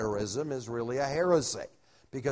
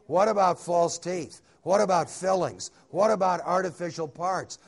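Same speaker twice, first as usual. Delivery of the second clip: higher, insistent run of questions; teasing objection; 4 semitones higher, 4 dB louder than usual. Retold or imitated. Preacher teases his friend about what gets left behind, insistent questioning. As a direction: pile up the comic objections.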